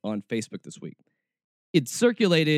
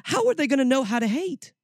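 mock lament; 11 semitones higher than usual. Mocking couple, fading out.

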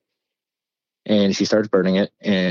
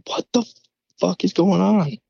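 retold shocked disbelief; 12 semitones higher than usual. Storyteller reacting to exorcism story, high-pitched and shocked.

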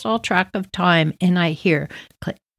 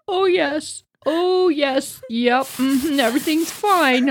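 a much higher, sing-song pretend cheerfulness; mom's fake-calm reply; 8 semitones higher, slower than usual. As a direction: mom covering up, voiced high and bright-sounding. Mom covering up to dad.

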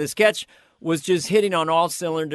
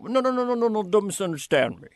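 Lorne's backpedaling no's; 4 semitones higher than usual. Retold or imitated. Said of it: "backpedaling motorboat sound".

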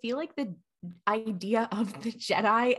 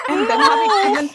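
laughing through words; 15 dB louder, faster than usual. Real, not acted. Laughing while continuing joke.

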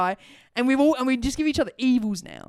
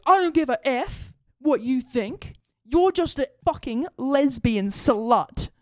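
slow, deliberate insult; retold aggression; slower than usual. Neighbour insults her out of nowhere, mildly acted aggression. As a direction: spit each word out slowly, mildly aggressive. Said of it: "immediate aggression out of nowhere".

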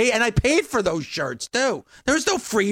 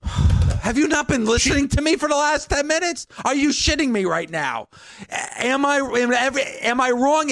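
exasperated outburst after a sigh; indignant disbelief; 4 semitones higher than usual. Real, not acted. Angry host confronts co-host who missed his question, indignant. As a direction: demand it, incredulous at being ignored.

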